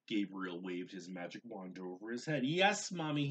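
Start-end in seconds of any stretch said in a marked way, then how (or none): 2.4-3.3 put-on child voice. A narrator's reading. Child answering mother.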